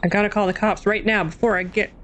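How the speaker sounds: lightly voiced character, quick read; a hint of a put-on character voice; Albert voice. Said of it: "That's my Albert voice".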